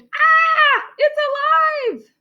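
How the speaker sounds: very high, drawn-out shriek of alarm; high-pitched panicked cry; scream. A narrator's reading. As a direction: scream in comic terror. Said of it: "The man screamed".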